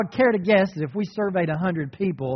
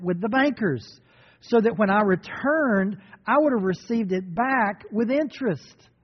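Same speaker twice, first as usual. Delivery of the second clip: stern master. Acted. Preacher voicing the angry master.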